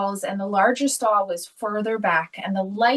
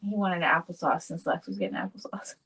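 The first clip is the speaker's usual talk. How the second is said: whisper; 3 semitones lower, 6 dB quieter than usual. Real, not acted. Confiding aside, unvoiced.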